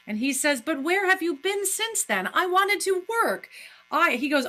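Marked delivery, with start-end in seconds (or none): 0.6-3.5 acted doctor. Acting the doctor, high.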